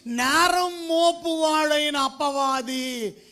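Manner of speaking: loud, very slow denunciation; thundering at the church against the accuser; preaching at full force. Acted. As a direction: drag out every word like a verdict. Denouncing the accuser.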